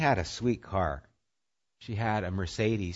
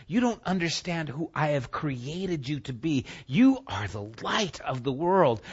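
God answering the doubter; 8 semitones higher, 4 dB louder than usual. Acted. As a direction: answer as God, insistent and rising in force. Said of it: "And God is saying".

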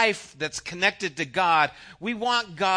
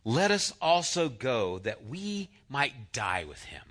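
gloomy Thomas; 5 semitones lower, 5 dB quieter than usual. A narrator's reading. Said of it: "said to his fellow disciples".

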